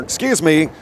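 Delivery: raspy sore throat; hoarse voice. Real, not acted. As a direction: talk through a croaky throat. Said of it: "I sound like a dying frog".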